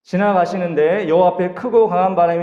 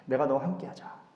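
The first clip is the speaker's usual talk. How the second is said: softer, tender and close; like a dear friend; 5 semitones lower, 11 dB quieter than usual. Acted. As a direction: say it like to the person you cherish most. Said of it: "정말 내 친구처럼". (가장 아끼는 사람에게 하듯 다정하게)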